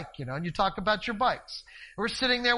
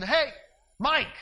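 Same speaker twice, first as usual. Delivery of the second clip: calling out; 6 semitones higher, 5 dB louder than usual. Retold or imitated. Yelling over to neighbour.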